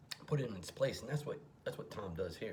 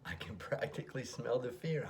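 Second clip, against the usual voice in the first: demon voice; 6 semitones higher, 4 dB louder, slower than usual. Retold or imitated. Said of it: "He says".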